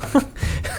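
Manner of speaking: a soft, breathy chuckle with no voice; breathy laugh. Acted. Enoch joins his companion's joke with a breathy laugh. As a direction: laugh quietly under the breath. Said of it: "Enoch breaks into laughter as well".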